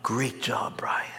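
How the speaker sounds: soft, unvoiced little compliment; whispered praise. Preacher imagines God praising Brian in a whisper. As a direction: hush it like a private pat on the back. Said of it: "How about".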